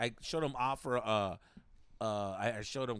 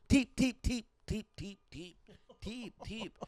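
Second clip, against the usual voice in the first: put-on Asian accent; 7 semitones higher, slower than usual. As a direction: beg for a tip in a mock Asian accent, trailing off. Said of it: "I did the accent the whole time".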